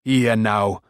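mild command in character; ordering. A narrator's reading. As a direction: call the pupil to order. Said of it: "he ordered".

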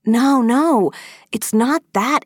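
high, loud, eager protest; glowing with excitement. Acted. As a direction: excitedly wave off the misunderstanding. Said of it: "glowing with excitement".

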